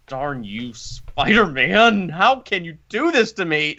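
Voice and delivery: drawn-out, slow mock reproach; mock tearful complaint. Fan scolding Spider-Man for the tears, slow mock whine. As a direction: scold the hero for making you cry. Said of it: "and I was like".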